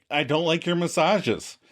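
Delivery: mildly insistent imitated plea; Monica's request. Girlfriend demands honesty from boyfriend, mildly insistent. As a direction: act out a girlfriend asking for honesty. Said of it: "I wish you could just tell me".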